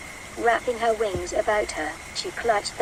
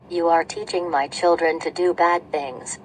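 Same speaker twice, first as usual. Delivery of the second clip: scolding Mama Bird; 2 semitones lower, 4 dB louder than usual. Acted. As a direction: order the chicks back in.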